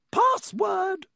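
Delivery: very high, loud singing-out voice; imperious demand. A narrator's reading. Painted woman challenges students at the door, imperious.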